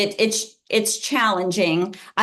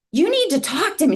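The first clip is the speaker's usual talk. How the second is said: raised, sharp teacher scolding; quoting an annoyed teacher, half-raised; retold scolding; 7 semitones higher, faster than usual. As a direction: tell him off firmly. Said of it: "She's, like, started yelling at me".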